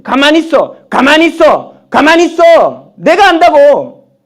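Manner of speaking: loud, high, insistent shouting; shouted command. Acted. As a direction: shout them down, slowing for the last. God repeatedly silencing the believer. (거듭 호통치듯 외침)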